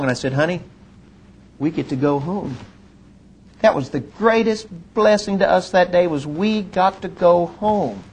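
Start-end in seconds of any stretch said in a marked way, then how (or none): 0.3-2.6 soft, quiet and tender; tender to wife. Retold or imitated. Telling his wife softly they can go home. 6.1-8.0 slowed, weighty repeat; slow emphasis. Real, not acted. Preacher to congregation, slow and weighty.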